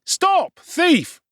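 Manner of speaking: very high, loud chase cry; joining the pursuit with a loud cry; shouting boys. Acted. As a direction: bellow it like a street urchin giving chase. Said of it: "and shouting".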